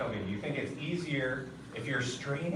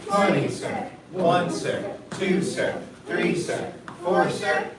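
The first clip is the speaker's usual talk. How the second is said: shouted drill count; 2 semitones higher, 6 dB louder, slower than usual. Real, not acted.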